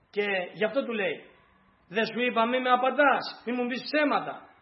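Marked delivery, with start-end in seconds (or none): 1.9-4.5 pained reproach. Acted. Woman reproaches the prophet.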